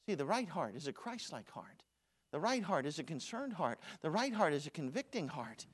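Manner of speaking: right leaned on each time; right hammered in a rhythmic refrain; stress on right. Shown as a demonstration. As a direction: hit the word right in every line. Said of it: "repeated stressed RIGHT".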